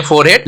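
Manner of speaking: "फोरहेड" with the h sounded; wrong pronunciation. Shown as a demonstration. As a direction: say "फोरहेड" as fore + head. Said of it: "ये गलत pronunciation है". ("फोरहेड" को फ़ोर-हेड, गलत उच्चारण)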